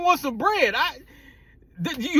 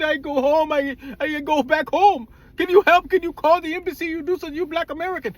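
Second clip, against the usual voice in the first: imitating pleading friend; 2 semitones higher than usual. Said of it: "He's in tears".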